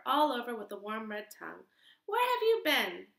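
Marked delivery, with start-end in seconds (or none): 2.1-3.1 high, loud anxious question; mother cat calls out in relief; worried cry. Acted. Mother cat finds her lost kitten, high anxious cry. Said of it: "she cried".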